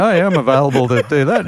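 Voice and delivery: light send-up of an always-available media star; mock eager celebrity. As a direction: play him as always saying yes to media, lightly hammed. Mocking Dale Junior's eager media persona.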